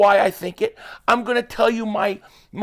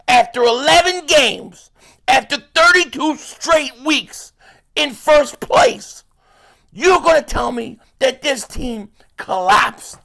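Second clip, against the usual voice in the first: high, slow incredulous question; high, drawn-out disbelief; disbelieving rant; 5 semitones higher, 3 dB louder than usual. Real, not acted. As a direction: spell out the absurdity slowly. Incredulous rant about collapse.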